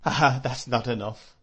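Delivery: tearful cry. Acted. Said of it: "she cried".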